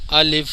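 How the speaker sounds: الف with a clear f at the end; final f sounded. Shown as a demonstration. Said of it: "اینڈ کے اندر فا کی آواز نکلنی چاہیے".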